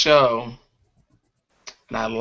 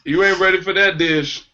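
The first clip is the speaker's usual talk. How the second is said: mock stern warning; 5 semitones higher than usual. To the friend stuffed with fried fish, mock stern warning.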